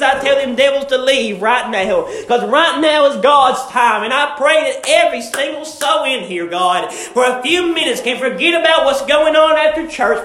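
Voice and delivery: fervent prayer. Acted. Preacher praying aloud over the church, fervent and building. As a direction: pray fervently for the anointing. Preacher prays before the sermon.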